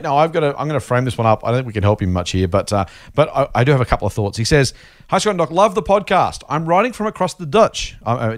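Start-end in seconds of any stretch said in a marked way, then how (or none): 5.1-7.9 higher-pitched, chirpy read-out; reading a letter. Retold or imitated. Host reads listener's email to co-host, higher read-out.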